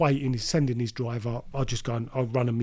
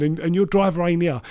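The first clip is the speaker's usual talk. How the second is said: raised, indignant retold complaint; having a go; 4 semitones higher, 5 dB louder than usual. Dealer telling his mate the driver is missing, having a go. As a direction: re-enact having a go, pitched up. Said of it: "I'm having a go at him".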